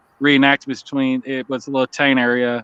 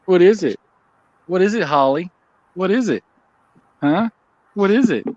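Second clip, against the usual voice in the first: talking to a dog; 3 semitones higher than usual. Real, not acted. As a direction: coax the dog with playful questions.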